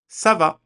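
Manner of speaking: "ça va" with the ç said as a crisp s; French "ça va", opening with "sa"; C pronounced as S. Shown as a demonstration. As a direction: begin "ça va" on an s sound, not a k. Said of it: "indicate that a C is pronounced S".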